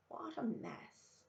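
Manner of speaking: slow, soft dismayed sigh. A narrator's reading. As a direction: let it sink in slowly. Old woman sees festering leg.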